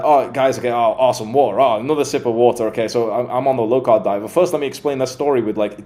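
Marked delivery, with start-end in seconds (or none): 0.0-4.2 lightly mocked rambling YouTuber, louder; hint of a hurried, cluttered vlogger. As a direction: imitate a scattered speaker stumbling through an intro. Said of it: "So instead of it being like".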